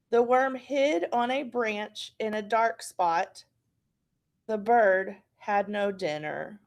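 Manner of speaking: slow, clear storybook reading; reading aloud. Acted. Teacher reading a short story slowly to the class. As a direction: read it slowly for young kids.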